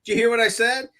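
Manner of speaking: high-pitched angry retort, not full volume; retold screaming. Driver rants at woman who walked off, mock screaming. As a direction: re-enact screaming at someone without real shouting. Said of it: "I start screaming at her".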